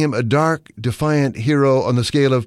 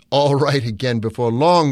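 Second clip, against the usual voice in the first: contemptuous laugh. Acted. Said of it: "with a solemnly derisive sort of laugh".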